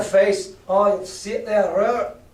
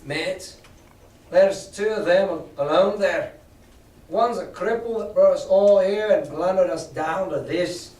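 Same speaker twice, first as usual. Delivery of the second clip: rallying cry; 4 semitones higher, 3 dB louder than usual. Acted. Mary urging the pirates to attack, building to a shout. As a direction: whip the crew up to charge. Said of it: "raising his arm and his voice".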